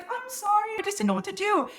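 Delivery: very high, meek imitated apology; embarrassed apology. Friend apologizing to him after the kiss, embarrassed. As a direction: squeak out a mortified sorry. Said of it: "she's so embarrassed".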